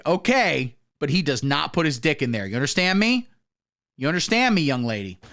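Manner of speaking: lightly voiced firm mom; stern parent. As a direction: lay down the rule like a parent. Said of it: "you go to your parents and go".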